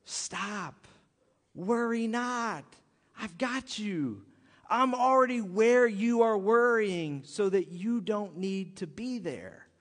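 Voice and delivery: put-on calm a worried child; gentle reassurance. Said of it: "that's what God said to me this week".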